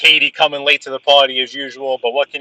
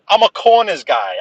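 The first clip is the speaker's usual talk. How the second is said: emphatic; 6 semitones higher than usual. Real, not acted. Says the same words twice.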